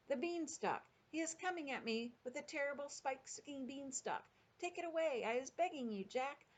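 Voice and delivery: high, whimpering plea; Flesh Lump Eater. A narrator's reading. Giant begs Jack to remove the beanstalk, acted terror. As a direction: beg in a high voice, no real shouting. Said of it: "shouted the Flesh Lump Eater".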